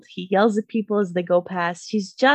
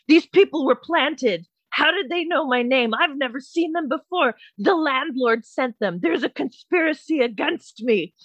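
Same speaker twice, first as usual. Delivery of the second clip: raised-pitch mock outrage; imitating mad neighbor; 4 semitones higher than usual. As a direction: play the indignant conspiracy ranter. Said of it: "he's so mad that he's being".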